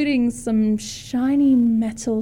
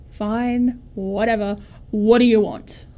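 grumpy. Acted. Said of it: "grumpy and annoyed".

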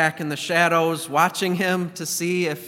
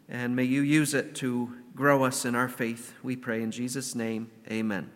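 prayer. Acted. Opening prayer before sermon.

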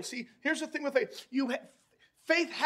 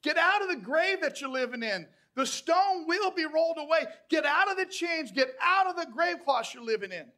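raised, urgent preacher's command; urgent calling out; 4 semitones higher, 3 dB louder than usual. Acted. Preacher voicing Jesus calling some of you out, urgent call. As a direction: call them out insistently. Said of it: "he's calling some of you".

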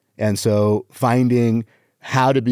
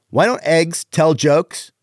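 higher, drawn-out riddle; exaggerated joke setup; 5 semitones higher, slower than usual. Shown as a demonstration. Comic focusing on delivery of a one-liner, exaggerated setup. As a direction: stretch the question out for timing. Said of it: "on the delivery".

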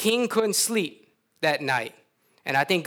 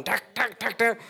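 hammer noise; 4 semitones higher than usual. Retold or imitated. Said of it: "You can hear the hammers going".

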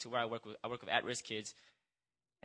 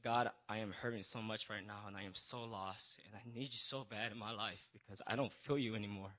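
emotional; 6 dB quieter than usual. Retold or imitated. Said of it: "emotional, I said".

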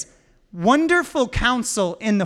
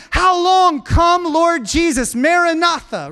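prayerful cry; 4 semitones higher than usual. Retold or imitated. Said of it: "And we say".

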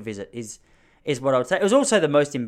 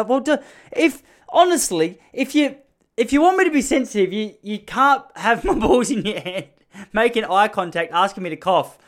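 high, loud, strained mock protest; laughing protest; 8 semitones higher, 6 dB louder than usual. Embarrassed boy protesting to the nurse mid-exam, laughing. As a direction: squeal it out, fighting the giggles. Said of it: "I'm laughing".

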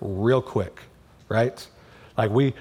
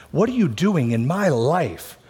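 raised, accusing question to God; frustrated complaint. Pretend. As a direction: demand it like a hurt, frustrated believer. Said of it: "we can say the same sentence fr-, from two different hearts".

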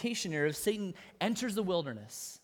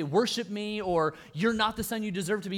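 emphatic demand; 3 semitones higher, 4 dB louder than usual. Shown as a demonstration. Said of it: "He doesn't say that emphatically".

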